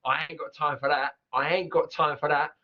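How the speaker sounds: Cockney "ain't got time" with glottal Ts; Cockney line; Cockney accent. Shown as a demonstration. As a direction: say it broad Cockney. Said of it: "Couldn't sound more Cockney".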